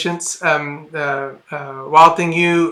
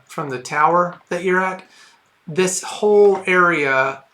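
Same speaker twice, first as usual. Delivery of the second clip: scene setting; slower than usual. Acted. GM sets the scene slowly.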